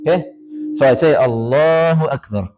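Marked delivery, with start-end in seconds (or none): 1.1-2.5 long, slow "Allahu", falling away on "Akbar"; drawn-out takbir. Shown as a demonstration. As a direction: stretch "Allahu" as if timing it to a movement. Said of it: "like this".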